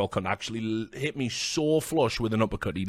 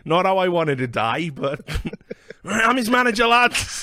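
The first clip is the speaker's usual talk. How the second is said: mock tough guy; 10 semitones higher, 5 dB louder, slower than usual. Retold confrontation, acted quote.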